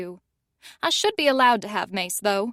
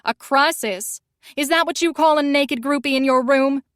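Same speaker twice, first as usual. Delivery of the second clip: heated; 3 semitones higher, 5 dB louder than usual. Acted. Heated quarrel.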